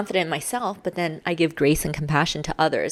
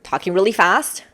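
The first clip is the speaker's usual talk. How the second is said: quick, louder burst, lifting at the end; talking fast; 3 semitones higher, 6 dB louder than usual. Shown as a demonstration. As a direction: rattle it off fast. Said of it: "things like fast and slow".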